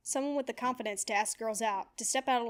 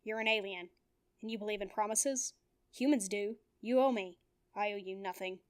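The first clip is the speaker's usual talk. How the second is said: cold. Acted. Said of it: "he answered coldly".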